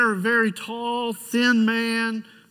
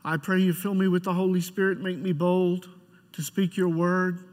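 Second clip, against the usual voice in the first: prayer; 3 semitones lower than usual. Acted. Pastor leads opening prayer.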